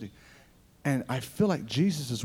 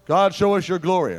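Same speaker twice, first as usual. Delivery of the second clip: called out loud to God, pitch up; fervent prayer cry; 5 semitones higher, 10 dB louder than usual. Retold or imitated. Preacher calling out to God in prayer, loud. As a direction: cry out to God for his glory.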